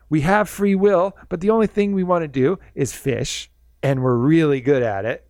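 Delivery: cheerful dolphin spirit greeting a visitor; super happy dolphin. Retold or imitated. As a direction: beam like the happiest creature alive. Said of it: "happiest spirit".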